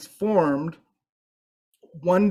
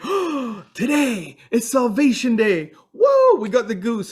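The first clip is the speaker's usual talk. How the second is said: high, loud squealing joy at being rescued; excited animals; 8 semitones higher, 4 dB louder than usual. Acted. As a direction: cheer like you've just been saved. Stranded animals spot the goose.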